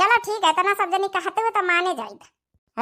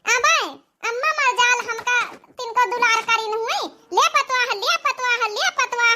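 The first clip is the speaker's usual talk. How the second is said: whiny complaint; 5 semitones higher than usual. Acted. Daughter complains, voice raised high throughout.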